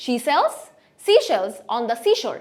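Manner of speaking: slow phrase, pausing after "She sells"; careful s and sh drill; tongue twister demo. Shown as a demonstration. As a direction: practise it in two careful chunks. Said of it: "এভাবে উচ্চারণ করবেন".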